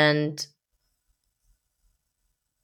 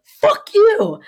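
high, loud angry yell; re-enacted furious outburst; retold snap; 6 dB louder than usual. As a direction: snap and hurl it at him. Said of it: "just snapped".

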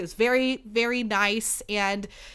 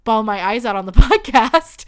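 teary laugh; 10 dB louder than usual. Real, not acted. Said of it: "doing my best to keep my shit together".

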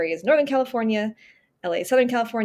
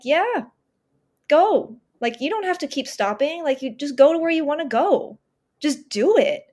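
body cheering her on; 5 semitones higher than usual. Retold or imitated. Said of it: "my brain and my body were like".

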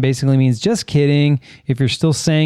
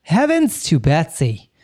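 put-on slow, creaky old lady; old person voice; 2 semitones higher than usual. Shown as a demonstration. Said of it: "using your old person voice".

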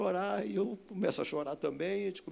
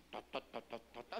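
soft, low puttering noise; quiet chugging car imitation; 5 semitones lower, 16 dB quieter than usual. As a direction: imitate an engine crawling along. Imitates car crawling at twenty.

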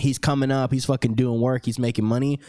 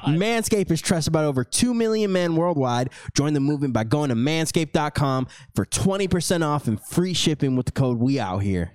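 ad read; 3 semitones higher than usual. Acted. Host closes the sponsor spot for listeners, light ad-read voice. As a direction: deliver the promo code like a commercial.

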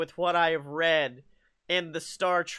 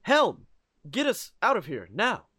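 lightly voiced starship captain giving orders; a hint of a commanding captain, punched first word; James Kirk. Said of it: "a nice little James Kirk impression".

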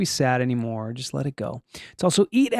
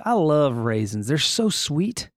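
lightly Southern, stretching the vowels; Southern accent. Real, not acted. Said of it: "I don't know why I got Southern".

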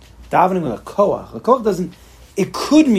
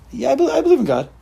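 higher, limp mock of a hesitant believer; half-hearted belief; 9 semitones higher than usual. Mocking a congregant who says he believes without meaning it. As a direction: toss off the belief with no conviction. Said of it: "why are you saying it like that?".

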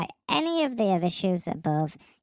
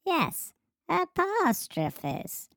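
"apostrophes" said much higher and slowly drawn out; mock emphasis; 9 semitones higher, much slower than usual. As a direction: lean hard on "apostrophes", pitched up. Mocking the wrong word.

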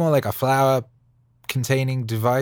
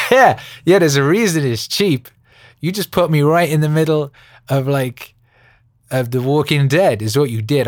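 laughing mock complaint; 4 semitones higher, 7 dB louder than usual. Real, not acted. Laughing rant at wife's choice.

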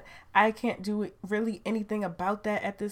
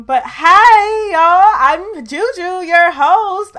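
high, loud, slow hello; an excited high loud host hello; excited greeting; 11 semitones higher, 17 dB louder, much slower than usual. Real, not acted. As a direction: greet them big and bright.

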